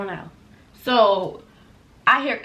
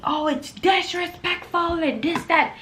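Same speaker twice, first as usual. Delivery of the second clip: higher, mock whiny voice; mocking his complaint; 8 semitones higher than usual. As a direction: parody the coworker's nagging. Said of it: "Academics starts yelling over me".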